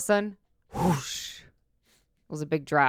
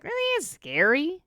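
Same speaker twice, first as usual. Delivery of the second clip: teasing high voice; 10 semitones higher, 4 dB quieter, slower than usual. Retold or imitated. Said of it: "I'm like".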